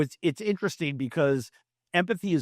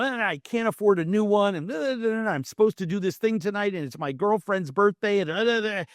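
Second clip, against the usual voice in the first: higher, rushing upset rant; upset roommate; 5 semitones higher than usual. Retold or imitated. Roommate listing all his worries, mock upset rant. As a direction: pile up the worries breathlessly.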